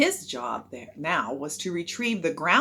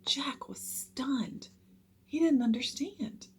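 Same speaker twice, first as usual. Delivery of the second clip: stunned; 7 semitones higher, 5 dB quieter, slower than usual. A narrator's reading. Hushed narration of shock.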